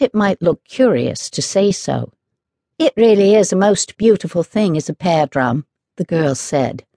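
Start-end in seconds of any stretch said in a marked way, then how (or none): 2.8-5.7 fond, admiring tone over a treasured thing; almost affectionate. Acted. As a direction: speak of it like something you love. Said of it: "speaking in a voice that was almost affectionate".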